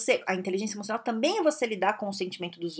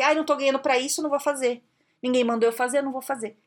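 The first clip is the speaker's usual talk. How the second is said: whiny complaining; 3 semitones higher, faster than usual. Retold or imitated. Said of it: "aquela pessoa que fala assim".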